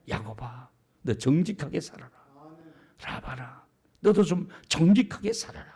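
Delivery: soft, low counsel with pauses; God gently admonishing. Acted. God urges Jacob and Laban to live truly, soft admonition. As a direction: call each name softly, then urge him. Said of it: "무슨 메시지를 주고 있습니까?".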